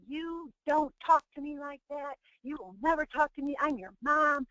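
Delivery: a touch of indignant mother; mock scolding mom. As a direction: act out a mom laying down the law. Instead-of scolding parent voiced.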